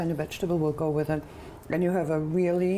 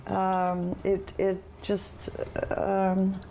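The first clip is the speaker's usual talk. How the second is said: talking through a mouthful; words round a bite of food; mouth full; slower than usual. Real, not acted. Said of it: "I'm talking with my mouth full".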